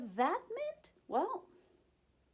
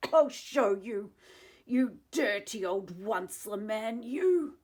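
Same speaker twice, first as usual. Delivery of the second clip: angry lecturing; 6 dB louder than usual. Acted. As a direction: tell him off with force. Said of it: "snapped the Lorax".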